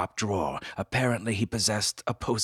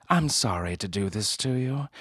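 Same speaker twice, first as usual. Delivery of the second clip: apologetic woman; 3 semitones higher than usual. Acted. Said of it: "she said".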